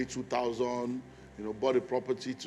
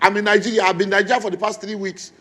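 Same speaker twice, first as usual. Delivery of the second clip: much higher, louder gushing welcome; delighted phone greeting; 7 semitones higher, 12 dB louder than usual. Retold or imitated. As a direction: gush like a friend caught off guard. Friend's overjoyed phone greeting voiced.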